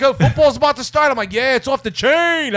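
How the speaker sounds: imitated adopted Black American inflection; changed inflection. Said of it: "my inflection changed".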